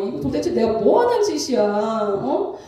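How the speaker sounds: mildly exasperated venting to oneself; aggrieved self-questioning, lightly acted; retold upset lament. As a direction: replay a fed-up, hurt complaint. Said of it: "너무 속상한 거예요".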